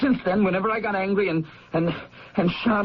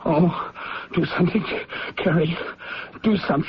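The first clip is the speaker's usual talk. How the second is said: panicked pleading; 3 semitones lower than usual. Acted. Panicked son begs sister.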